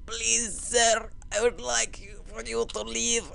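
high, soft put-on voice; hammed-up timid begging; mock pleading. Mock pleading with game enemy.

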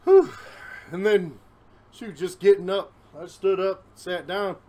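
slightly winded after standing; out of breath. Real, not acted. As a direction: speak a little short of breath. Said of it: "a little bit out of breath".

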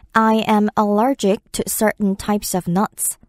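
slow, careful English example; slow demo read; slow model sentence. Shown as a demonstration. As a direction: read it slowly and clearly. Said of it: "For example".

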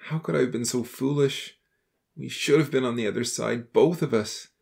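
low-pitched voice heavy with remorse; anguished confession, pitched well below the narration; sobbing apology. A narrator's reading. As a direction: pour out regret in a deep, grief-laden voice. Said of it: "he sobbed, hugging him tightly".

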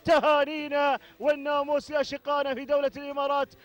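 fervent race call with repeated cries; live play-by-play. Real, not acted. Commentator following camels to the finish, energetic play-by-play. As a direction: keep the race call rolling.

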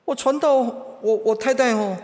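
high, loud wail of a distressed husband; mock tearful. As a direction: play a husband crying to his pastor. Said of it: "他哭啊". (带哭腔地喊)

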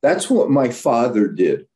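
mock furious wife, pitch shooting up; retold angry yell. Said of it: "she yells at him".

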